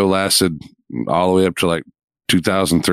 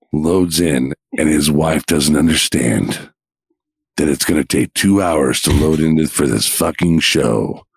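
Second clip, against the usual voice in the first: movie trailer voice; 3 semitones lower than usual. Pretend. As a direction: narrate it like an epic film trailer. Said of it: "do it in the movie trailer voice".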